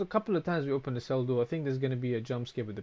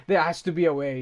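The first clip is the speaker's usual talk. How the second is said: louder, mock-insistent demand; mock caps shout; 4 semitones higher, 7 dB louder than usual. Streamer voicing chat's all-caps plea, mock shouting. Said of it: "I love the fucking shouting with the caps".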